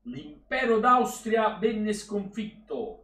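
slow, grand delivery like a history lesson; mock-solemn recital. Streamer hamming up World War history about Austria. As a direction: deliver it like a pompous schoolbook.

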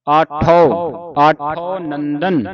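ਆਠੋ ਨੰਦਨ very slow, ਆਠੋ with the mouth wide open; open-mouthed aatho. Shown as a demonstration. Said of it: "ਮੂੰਹ ਖੁੱਲ ਕੇ ਇੱਥੇ ਉਚਾਰਨ ਹੋਵੇਗਾ". (ਮੂੰਹ ਖੋਲ੍ਹ ਕੇ ਆਠੋ ਨੰਦਨ)

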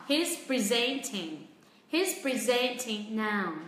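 very slow model, "presenting" as pri-ZENT-ing; stress on second syllable. Shown as a demonstration. Teacher puts the verb in a sentence, very slow pri-ZENT-ing. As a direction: spell it out slowly, weight on ZENT in "presenting". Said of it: "trọng âm sẽ rơi vào âm tiết thứ".

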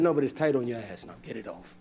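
low blunt husband; husband's blunt reply. Retold or imitated. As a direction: say it low and flat. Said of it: "I said".

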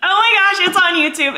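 high-pitched thrilled disbelief; excited squeal. Real, not acted. Vlogger seeing it posted on YouTube, thrilled squeal. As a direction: start high and giddy with excitement. Sees launch is live.

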